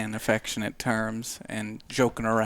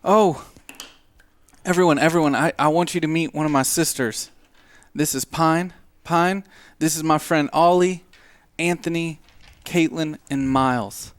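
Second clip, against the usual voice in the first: cheerful commune sister; 3 semitones higher than usual. Acted. Pine introduces her brother's friends, lightly voiced and eager. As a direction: bubbly welcome for the newcomers.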